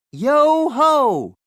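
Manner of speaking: high, loud cheer; rousing pirate shout. Acted. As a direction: cheer the ship into the sky. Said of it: "shouts Jake".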